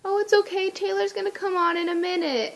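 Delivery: high, cooing reassurance; soothing stranger. Retold or imitated. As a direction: imitate a lady comforting someone in tears. Lady comforting crying girl.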